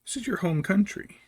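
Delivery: incredulous and sarcastic; sarcastic disbelief. Retold or imitated. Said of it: "It's like".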